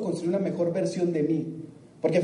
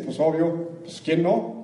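lightly voiced smug shrug answer; typical person's answer; 3 semitones lower, much slower than usual. Speaker imitates people he asks about money, lightly smug. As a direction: shrug it off as obvious. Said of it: "qué creen que me dicen".

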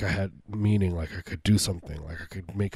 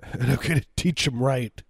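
gleeful threat; 3 semitones higher than usual. Acted. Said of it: "I just got so happy".

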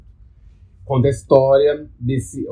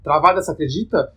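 talking with a clenched jaw. Real, not acted. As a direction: jaw locked tight, barely opening. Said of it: "eu tô com a mandíbula travada".

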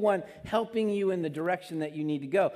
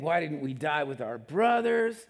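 whining Israelites; 4 dB louder than usual. Retold or imitated. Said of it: "they're saying".

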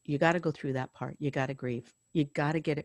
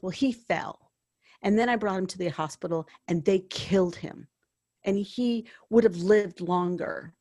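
louder, accusing retold complaint; retold anger; 4 dB louder than usual. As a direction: relay an angry relative's grievance. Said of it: "I'm so angry".

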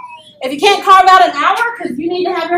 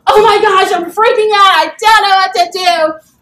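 panicked; 3 semitones higher, 6 dB louder than usual. Retold or imitated. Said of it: "you're like".

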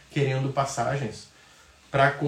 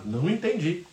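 robot voice; 4 semitones higher than usual. Retold or imitated. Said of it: "eu sou um robô".

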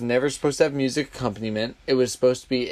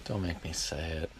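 reluctant; 8 semitones lower, 12 dB quieter than usual. Real, not acted. Reluctant, pleading to host.

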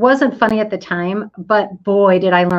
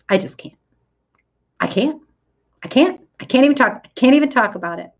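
overwhelmed friend; 4 semitones higher, much faster than usual. Retold or imitated. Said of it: "and she goes".

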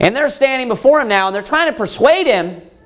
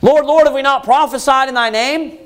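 higher-pitched plea; begging; 4 semitones higher than usual. Acted. The rejected arguing their works to the Lord, begging. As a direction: plead your case to the judge. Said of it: "They're begging him".

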